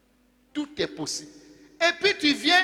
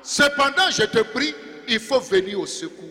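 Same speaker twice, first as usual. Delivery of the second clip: pleading cry. Acted. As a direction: beg for rescue while still believing. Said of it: "Alors, il dit".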